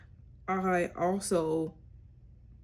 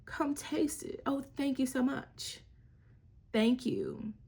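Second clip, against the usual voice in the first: put-on praising child; 6 semitones higher than usual. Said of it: "Be like".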